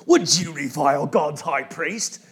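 slow, put-on British accent. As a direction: quote it in a mock British accent. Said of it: "I always want to do a British accent".

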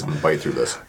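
talking around a pen in the mouth; words muffled by a pen held in teeth. Real, not acted. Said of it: "So if I hold this pen in my mouth".

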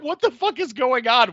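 high, loud baffled question; completely thrown, demanding answers; retold disbelief. Narrator recalling her shock at the guard, high-pitched. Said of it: "So I'm like".

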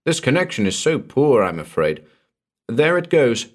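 calm, detached voice on a bad phone line; small cool voice. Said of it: "A small voice, distinct and cool".

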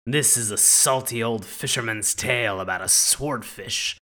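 salty sea captain voice; gruff old fisherman. Acted. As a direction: read it like an old sailor's tale. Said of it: "That was nicely done. Very nautical of you".

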